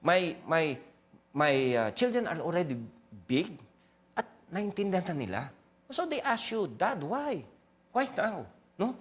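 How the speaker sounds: emotional, voice breaking; holding back tears; after crying. Real, not acted. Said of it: "control my emotion".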